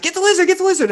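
high mock yell; imitating frantic roommate; imitating a scream. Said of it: "Laura's screaming inside".

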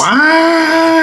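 surprised. Real, not acted. Surprised question.

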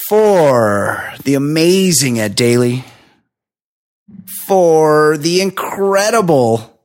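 drawn-out host sign-off, slow on the names; announcer. Acted. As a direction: announce the guests like a showman, stretching the words. Host's sign-off outro.

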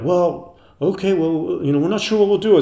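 a hint of a doubtful old man; hesitant old couple. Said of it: "And they're like".

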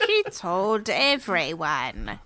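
reading through laughter; giggling through the words; laughing. Real, not acted. Reads again laughing.

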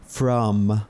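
"From" ending on a clear closed-lips M; drawn-out final M in "From". Shown as a demonstration. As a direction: close your lips fully at the end of "From". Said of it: "se cierran los labios cuando pronuncian con la M".

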